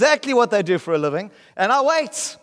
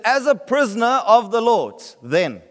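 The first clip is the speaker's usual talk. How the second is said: slow scripture read. Real, not acted. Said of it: "he says".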